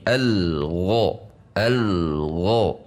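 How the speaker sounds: "al gho" with the l flowing on into gho; tidak dipisah. Shown as a demonstration. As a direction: join "al gho" without a gap. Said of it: "tidak dipisah dengan huruf gho". ("al gho" disambung tanpa jeda)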